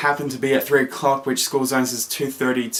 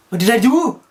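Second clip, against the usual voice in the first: high, loud, alarmed question; 9 semitones higher, 5 dB louder than usual. Retold or imitated. Examiner looks at the car, a loud alarmed question. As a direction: blurt it in sudden alarm. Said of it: "but I didn't say that".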